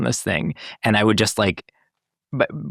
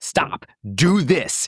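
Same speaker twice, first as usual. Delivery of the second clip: curt, terse, clipped delivery at higher pitch; 6 semitones higher than usual. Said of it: "all caps, two words".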